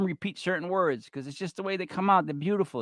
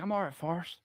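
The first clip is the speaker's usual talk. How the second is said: Bubba with the lip; 11 dB quieter than usual. Retold or imitated. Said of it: "With the, the lip".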